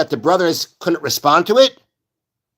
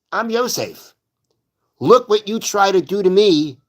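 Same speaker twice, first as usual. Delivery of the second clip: higher, pointed mock rebuke; talking tough; 3 semitones higher than usual. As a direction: make them face what they did. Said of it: "he's talking tough to them".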